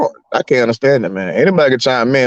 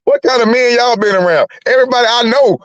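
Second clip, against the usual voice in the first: incredulous retelling; 8 semitones higher than usual. Retold or imitated. Telling Kwame how he reacted to the linebacker, high and incredulous. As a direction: act out your stunned reaction with a climbing voice. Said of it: "I'm like".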